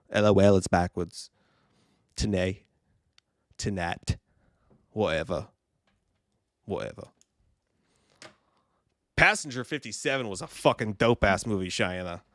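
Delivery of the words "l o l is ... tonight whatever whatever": mock British accent. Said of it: "Great accent".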